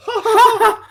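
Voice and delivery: high, loud laugh; high burst of laughter. Real, not acted. Friend cackles at the Brandon burn.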